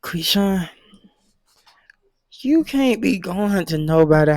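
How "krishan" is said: whisper. Shown as a demonstration. Whispered name before scolding.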